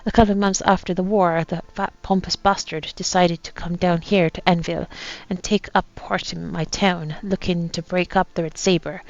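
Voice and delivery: put-on light pirate accent reading a captain's journal; lightly voiced pirate accent, a gruff old sea captain. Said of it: "you don't have to put up this accent anymore".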